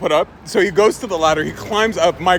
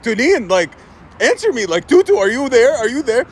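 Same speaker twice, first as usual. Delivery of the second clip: raised, higher urgent call; calling out urgently; 4 semitones higher than usual. Acted. Cousin calling toddler through locked door, urgent raised voice.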